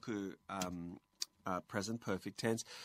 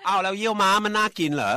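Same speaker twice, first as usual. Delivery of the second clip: 1 cheeky retort; 11 semitones higher, 15 dB louder than usual. Retold or imitated. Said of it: "ผมก็เลยบอกว่า".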